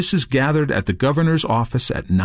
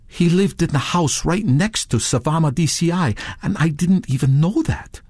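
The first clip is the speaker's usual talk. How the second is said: lightly voiced quote, higher; a hint of another man's voice, raised; quoted witness; 6 semitones higher than usual. A narrator's reading. Touré recalling his unknown neighbour, lightly voiced. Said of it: "Touare said".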